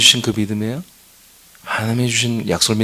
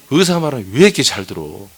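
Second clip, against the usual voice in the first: louder, half-joking scold; mock exasperated rebuke; 5 dB louder than usual. Pastor teasing the flock for obeying doctors, mock exasperated. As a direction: chide them like a fed-up pastor.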